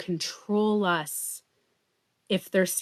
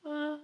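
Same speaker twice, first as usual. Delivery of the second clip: high, soft "ahh"; mock serene sigh; 7 semitones higher, 10 dB quieter than usual. Mocking constant calm to viewers, mock serene. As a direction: float out a soft, airy note. Imitating serene humans all the time.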